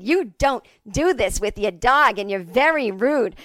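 slow, loud mock telling-off; mom yelling. Mom yelling at a woman with a dog, scolding. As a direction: imitate a mother scolding emphatically. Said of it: "I yelled at her".

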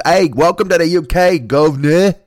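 high, loud mock Cockney greeting; cheeky Cockney put-on, slowed; Cockney accent. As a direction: ham up a Cockney welcome. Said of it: "That's what a Cockney says".

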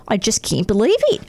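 stoked Aussie surfer, lightly put on; a relieved Australian surfer, easygoing; Australian accent. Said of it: "read this in an Australian accent".

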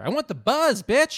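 high, loud, exultant yell; excited yell. Real, not acted. To friends about coffee, a loud high excited yell. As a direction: shout it like you're already wired.

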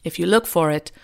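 bad British accent; lightly put-on British accent; Hugh Grant British accent. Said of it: "Excuse my terrible Hugh Grant".

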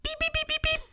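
high squeaky robot beeps. Shown as a demonstration. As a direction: chirp like a little droid. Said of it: "do an R two impression".

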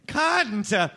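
"Cunt" with an extra syllable tacked on; weird pronunciation. Shown as a demonstration. American showing how it sounds at home, "Cunt" said weird with an added syllable. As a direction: stretch "Cunt" into two syllables, ending on "-uh". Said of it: "You said it very weird".

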